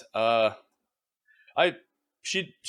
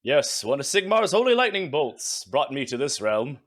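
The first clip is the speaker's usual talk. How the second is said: self-righteous. Acted. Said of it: "You got the self-righteous voice?".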